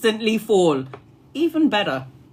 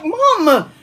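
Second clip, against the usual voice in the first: imitated daughter; 7 semitones higher, 3 dB louder than usual. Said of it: "she's like".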